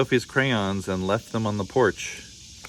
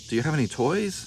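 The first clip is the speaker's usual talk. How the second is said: put-on demanding boy; 6 semitones higher, faster than usual. A narrator's reading. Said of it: "asked Wendell".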